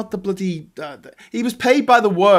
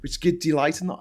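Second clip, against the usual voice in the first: recited Caliban; 2 semitones lower, 8 dB quieter than usual. Acted. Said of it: "Olympics with Caliban's speech".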